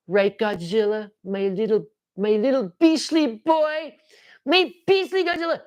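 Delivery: high, drawn-out cutesy doting on Godzilla; put-on silly high voice; playful silly voice. Playful riff on his Godzilla.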